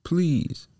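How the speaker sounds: very high, small begging voice; pleading puppet. A narrator's reading. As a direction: beg for help. Caged Pinocchio begs the fairy.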